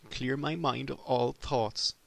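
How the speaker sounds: slow, drawn-out disbelief at "Clear my mind of all thoughts?"; incredulous repeat. Acted. Repeating the teacher's advice back in slow disbelief. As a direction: stretch "Clear my mind of all thoughts?" out slowly as if it were absurd.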